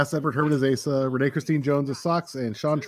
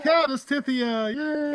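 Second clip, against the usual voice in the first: high, drawn-out welcome; gleeful cheer; 11 semitones higher, slower than usual. Real, not acted. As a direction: hail a favourite character's entrance. Cheering a character's entrance.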